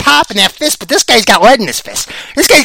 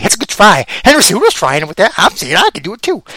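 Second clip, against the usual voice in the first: usual speaking voice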